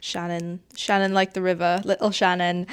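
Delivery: lightly voiced Irish accent, barely shifted; a hint of an Irish lilt on the name. Gushing about Shannon in a faint Irish accent. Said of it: "that's my Irish accent, I suppose".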